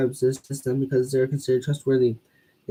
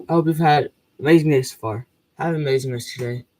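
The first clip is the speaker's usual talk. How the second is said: losing my voice, hoarse. Real, not acted. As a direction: voice going, rough and worn. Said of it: "I'm really losing my voice".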